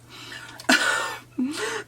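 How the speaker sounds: short high-pitched laugh. Real, not acted. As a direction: laugh it off mid-story. Amused mid-story.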